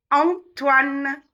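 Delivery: "Antoine" opening on a clear nasal AN. Shown as a demonstration. Teacher models nasal vowels, "Antoine" with nasal AN. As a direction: open "Antoine" through the nose, no separate N. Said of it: "Et les voyelles nasales".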